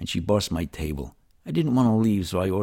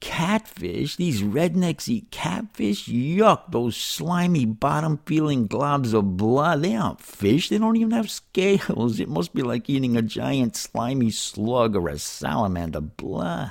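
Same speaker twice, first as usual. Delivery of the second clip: whining, put-on New York accent; 6 semitones higher than usual. Retelling the little inner voice reacting to a catfish restaurant, whiny New York voice. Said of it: "this little New York voice in the back of my head starts whining".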